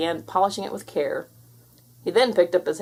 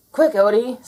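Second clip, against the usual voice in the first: urgent call; 5 semitones higher, 6 dB louder than usual. Acted.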